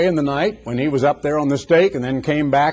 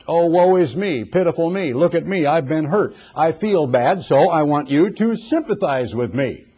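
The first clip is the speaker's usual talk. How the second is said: mock petulant; 3 semitones higher than usual. Preacher acts out self-pity to win sympathy, mock petulant. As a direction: act out a petulant plea for sympathy. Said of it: "I am now being petulant".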